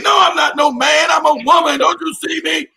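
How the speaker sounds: hammed-up indignant woman insisting; mocking a man claiming to be a woman; mock trans woman voice. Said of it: "deep voice".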